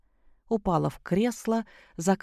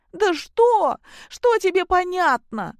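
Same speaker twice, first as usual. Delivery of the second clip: much higher and louder furious yell; angry shout; 13 semitones higher, 6 dB louder, slower than usual. A narrator's reading. Daughter shouting angrily at her father. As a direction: scream it back at him. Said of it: "зло закричала Кристина".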